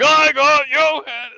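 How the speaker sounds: high, loud, slow triumphant yell; excited shout. Retold or imitated. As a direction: wave the card and holler it out.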